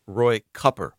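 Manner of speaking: Cupper said with a short u like cup; Cupper, the vowel of cup, not Cooper; Cupper mispronunciation. Shown as a demonstration. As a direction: say Cupper, rhyming the first part with cup. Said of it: "most of us have been mispronouncing".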